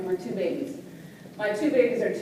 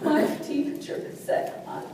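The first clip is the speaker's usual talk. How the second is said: put-on high, halting, slow little-girl whimper; acted hurt child, words dragged out; tearful child; 7 semitones higher, slower than usual. Daughter repeating teacher's words to Mommy, acted tearful. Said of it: "came home from school crying".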